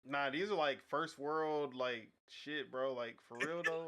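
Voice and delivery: dry mocking tone; sarcastic voice. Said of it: "I hate the sarcastic voice".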